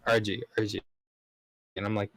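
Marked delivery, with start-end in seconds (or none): 0.1-0.8 "R G" for R J, ending in gee; coworkers' mispronunciation. Retold or imitated. Coworkers struggling with his nickname, R J pronounced "R G". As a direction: say R J as "R G", J becoming jee. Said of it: "the J is difficult".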